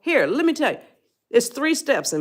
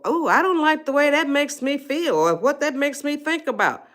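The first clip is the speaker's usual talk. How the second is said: gentle objection; 7 semitones higher than usual. Shown as a demonstration. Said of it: "Just say words to this effect".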